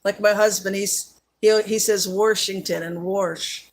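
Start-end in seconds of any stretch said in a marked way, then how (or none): 2.1-2.8 "Washington" said with an added R, like "Warshington"; husband's regional "Washington" with an intrusive R; invisible R. Retold or imitated. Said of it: "they have an invisible R too". 3.0-3.7 "Warsh" for wash, with an R before the sh; husband's regional way of saying "Warsh"; invisible R. Retold or imitated. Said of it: "they have an invisible R too".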